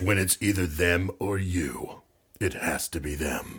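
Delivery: low movie-trailer narrator voice-over. Describing a movie when the movie voice comes back in, in a movie voice. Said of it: "the movie voice comes back in".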